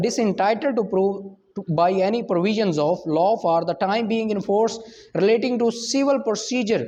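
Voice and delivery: reading the law word by word, very slowly; measured legal reading; slow statute reading. Acted. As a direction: dictate the section slowly for notes. Reads statute text aloud.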